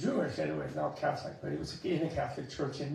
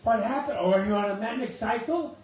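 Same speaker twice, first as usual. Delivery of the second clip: mock alarmed friend; 4 semitones higher, 4 dB louder than usual. Mocking a worried friend's questions.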